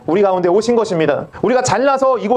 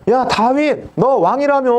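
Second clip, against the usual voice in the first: higher-pitched acted jeer; mocking taunt; 5 semitones higher, slower than usual. Bystanders taunting David about being king, mocking. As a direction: jeer at him like a scornful bystander. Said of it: "그러면서 막 조롱하는 거예요".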